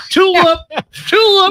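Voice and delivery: very high, silly falsetto name-call; high-pitched teasing sing-out; mock dog-calling. Mocking the dog's silly name.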